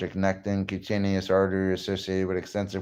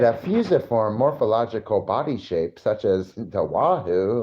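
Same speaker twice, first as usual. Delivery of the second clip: mock nerd voice. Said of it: "Fucking nerd".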